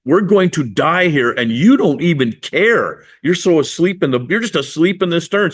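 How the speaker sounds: mildly indignant acted complaint; a touch of aggrieved disbelief; a little bit mad. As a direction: accuse him of not caring, lightly played. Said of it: "I think they're a little bit mad".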